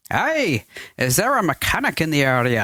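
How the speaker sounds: lightly put-on Scottish accent. Pilot asking at a Scottish cottage door, Scottish accent. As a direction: voice the stranded pilot with a Scottish lilt. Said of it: "That's a good Scottish accent".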